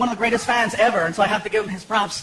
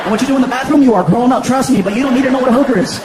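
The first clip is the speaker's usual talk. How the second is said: louder exasperated dad; raised voice; 6 dB louder than usual. Retold or imitated. Father refusing to explain to his son, louder. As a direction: push it louder, losing patience.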